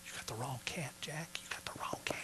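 very soft, fading to a near whisper; old way of talking. Retold or imitated. Man refusing God's call, old way of talking, very soft. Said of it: "that's the way I talked".

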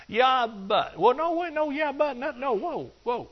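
high, rising yeah-but stammer; a rising, flustered yeah but no; flustered protest. Acted. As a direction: splutter like someone caught out. Acting out a flustered objector.

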